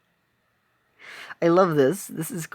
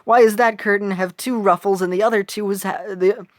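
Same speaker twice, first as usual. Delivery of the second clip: excited nitpicking detective; 4 semitones higher, 4 dB louder than usual. Retold or imitated. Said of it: "to just be like".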